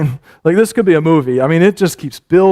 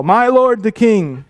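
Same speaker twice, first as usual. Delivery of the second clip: calling out; 6 semitones higher, slower than usual. Retold or imitated. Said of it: "called out to Saul".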